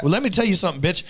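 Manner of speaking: loud, high, laughing brag; laughing comeback. Retold or imitated. Husband laughing loudly as he brags back to his wife. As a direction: crow it back at her through laughter.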